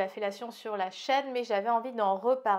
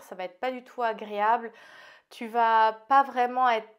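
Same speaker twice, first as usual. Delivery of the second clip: slight lisp from new aligners. Real, not acted. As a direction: lisp on the s sounds. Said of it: "Désolée si je zozote un peu".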